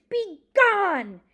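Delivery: high, loud dramatic cry; scream. A narrator's reading. Librarian throwing her book at the bear, screamed command. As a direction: shout it out to drive off a beast. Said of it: "and I screamed, screamed".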